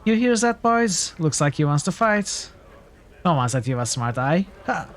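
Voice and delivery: bully playing to the crowd; jeering thug. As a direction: crow to his mates. Thug calls to his boys.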